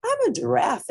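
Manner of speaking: giraffe voice. A narrator's reading. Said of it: "it said".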